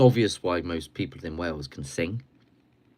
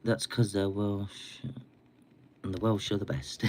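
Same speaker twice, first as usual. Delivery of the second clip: put-on Welsh accent; 4 dB quieter than usual. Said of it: "makes me Welsh".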